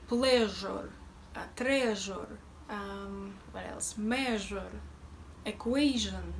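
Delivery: harder, harsher Russian zh in pleasure; lightly Russian-accented pleasure with a hard zh; Russian Mafia accent. Shown as a demonstration. Teacher mimics a Russian mobster for learners, hard Russian accent. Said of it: "sound like a member of Russian Mafia".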